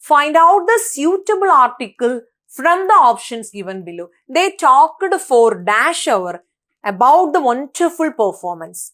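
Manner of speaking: reads the question out slowly and evenly; slow question reading. Shown as a demonstration. Teacher reading an exam question aloud, slow and clear. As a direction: dictate it slowly to the class.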